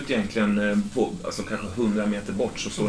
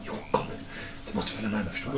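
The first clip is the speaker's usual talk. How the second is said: softly spoken, pressing order; hushed insistence; 10 dB quieter, faster than usual. Acted. Kidnapper urging his captive to follow, hushed. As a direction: press them quietly to come.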